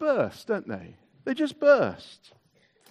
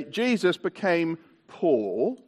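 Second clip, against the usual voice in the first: "Jesus" stretched slow and rising, cueing the room; slow call-out line; 4 semitones lower, 4 dB quieter, slower than usual. Shown as a demonstration. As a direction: say it slowly so they can act on "poor". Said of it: "I'm gonna say".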